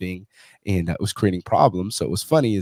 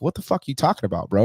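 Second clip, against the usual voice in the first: retold irritation; 5 semitones higher than usual. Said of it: "I was getting upset with him".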